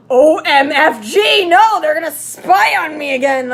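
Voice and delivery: loud alarmed outburst; panicked cry. Acted. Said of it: "I cried".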